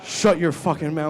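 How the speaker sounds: loud, high, stretched-out yell; panicked shout. Retold or imitated.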